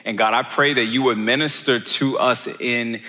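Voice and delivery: measured, subdued prayer with pauses; closing prayer. Real, not acted. Pastor leading the congregation to God, subdued prayer.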